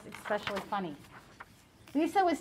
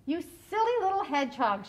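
mild laughing tease; 7 semitones higher, faster than usual. Acted. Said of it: "she laughed".

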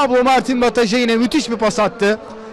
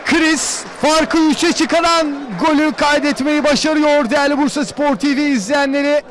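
screaming football commentator; 4 semitones higher than usual. Real, not acted. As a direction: stretch the name out, yelling it. Third goal call.

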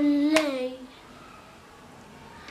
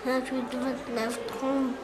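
poem recital. Acted. Child recites a counting poem.

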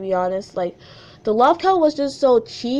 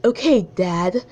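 lower-pitched mock French accent; attempted French accent; 4 semitones lower, slower than usual. Shown as a demonstration. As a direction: try a French accent, not very convincingly. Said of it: "let me do it in a French accent".

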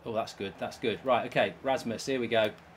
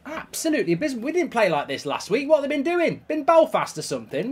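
disgusted rant; 8 semitones higher than usual. Real, not acted. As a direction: vent at the team, appalled. Gamer furious at team display.

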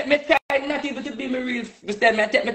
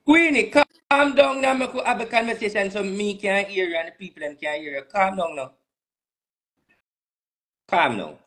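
soothing; 5 semitones lower than usual. Real, not acted. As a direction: talk her down gently. Soothing an upset friend.

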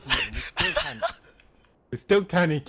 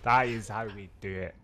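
light put-on Scottish brogue, mate after mate; mock Scottish accent. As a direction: grumble about the spawn in fake Scottish. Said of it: "I'm so focused on speaking Scottish".

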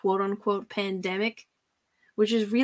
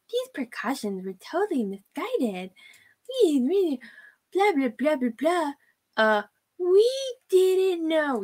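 mocking her; 6 semitones higher than usual. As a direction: parody a fake-innocent excuse. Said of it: "I'm gonna say it".

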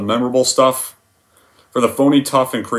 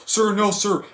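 higher, timid recruit answering; Private Pyle; 8 semitones higher, slower than usual. Retold or imitated. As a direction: answer meekly, staying at attention. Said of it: "How does the scene go?".

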